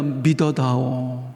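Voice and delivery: low, very slow begging "믿어다오". Retold or imitated. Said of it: "하고 구걸하셔요". (낮고 아주 느리게 "믿어다오" 애원)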